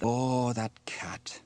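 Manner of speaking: exasperated little grumble; muttering under his breath. Acted. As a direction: grumble about a troublesome pet. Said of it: "muttered Sam under his breath".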